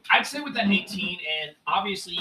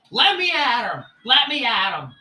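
eager to fight; 6 semitones higher, 8 dB louder than usual. Acted. Jessica straining to attack.

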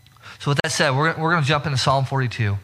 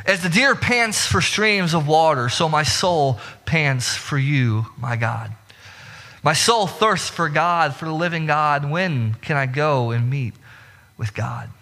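scripture reading; slower than usual. Acted. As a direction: read the psalm slowly and reverently. Reads Psalm forty-two aloud.

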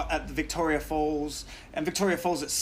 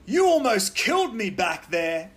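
slow, louder, accusing; angry confrontation; 4 semitones higher, 5 dB louder than usual. Retold or imitated. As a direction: confront the driver at his window. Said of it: "and I go".

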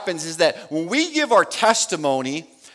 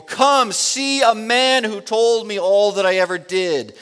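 louder, higher excited call; 4 semitones higher, 5 dB louder than usual. Acted. Samaritan woman calling to the townspeople, excited loud call. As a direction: call the whole town to come and see.

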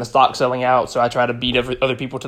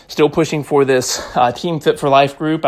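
slightly winded between workout sets; out of breath. Real, not acted. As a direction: talk while catching your breath. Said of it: "I'm a little out of breath".

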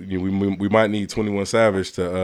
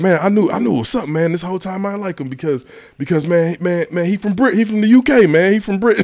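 higher, animated mock revelation; excited realisation; 10 semitones higher, 4 dB louder than usual. Host mimics his friend learning of the British roots, excited. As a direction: blurt it out as a friend's big vindication.

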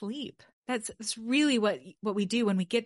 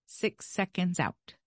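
slow demo count; 2 semitones lower, slower than usual. Shown as a demonstration. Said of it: "That's really the best cadence".

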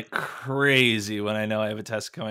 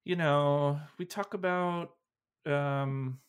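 serial killer; 2 semitones higher, 10 dB quieter, slower than usual. Real, not acted. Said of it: "you sound like a serial killer".

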